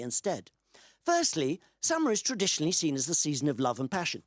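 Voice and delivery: emphatic, measured read-out of a written answer; recited chatbot answer, lightly performed; reading aloud. Acted. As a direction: read it out like a formal explanation.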